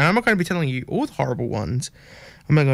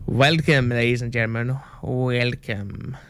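vampire voice. Pretend. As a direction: greet them like a hammy Dracula. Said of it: "This is supposed to be a vampire voice".

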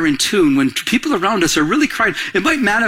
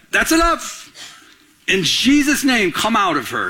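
firm rebuke; 2 semitones higher than usual. Retold or imitated. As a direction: cut her off with authority, then settle. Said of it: "He was like".

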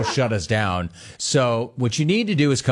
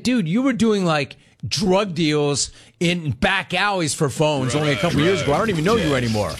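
mock outrage; 4 semitones higher than usual. Friend teasing him in the story.

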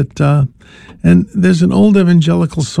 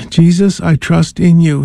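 calm prayer; 2 semitones lower than usual. Shown as a demonstration. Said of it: "as you let it out quietly to yourself".

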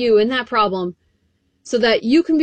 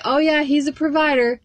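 casual shrug; 3 semitones higher than usual. Retold or imitated. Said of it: "He can't just be".

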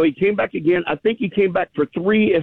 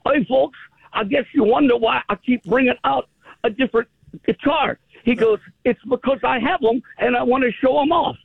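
high, light British impression; a mock Liverpool accent; imitating a famous singer; 7 semitones higher than usual. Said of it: "I'll try to imitate this with my somewhat southern accent".

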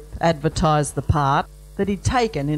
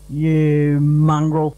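louder, slow indignant roar; 2 semitones lower, 4 dB louder, much slower than usual. Acted. Stan roars at the groom in slow, loud indignation. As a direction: roar it out, outraged. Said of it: "Stan roared in indignation".

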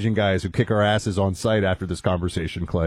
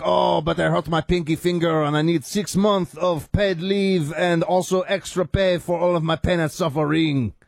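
high, whiny mock complaint from a French guy; whiny Frenchman; 5 semitones higher than usual. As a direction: ham up a pampered French cop moaning. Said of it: "a guy named Francois is like".

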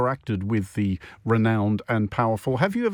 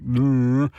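mock bleh; 3 dB louder than usual. Shown as a demonstration. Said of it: "sounds like".

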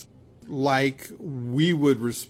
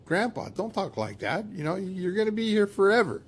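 higher-pitched, lightly acted protest to Grandpa; mock-coaxing grandchild, pitched up; reassuring a grandparent; 7 semitones higher, faster than usual. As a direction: gently brush off his worry, voice lifted. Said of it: "if we hear our grandfather saying something like that".

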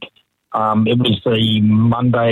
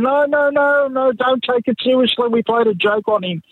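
retold plea; 11 semitones higher than usual. Pleading with boss after prank.

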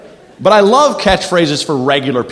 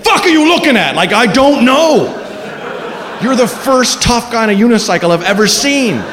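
mock tough guy; 4 semitones higher than usual. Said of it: "trying to keep your balance".

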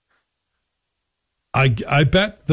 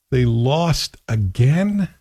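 very slow, weary disbelief; exasperated; much slower than usual. Real, not acted. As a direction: drag it out, fed up. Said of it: "No, that's my exasperated voice".

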